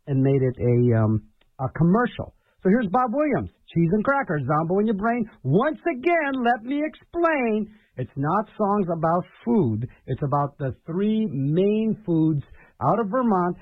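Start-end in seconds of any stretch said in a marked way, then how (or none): 5.4-7.7 slow explaining. Real, not acted. Host re-explaining the song.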